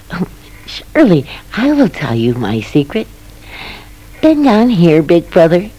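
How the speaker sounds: lightly voiced mouse beckoning. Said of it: "the little squeaking voice said".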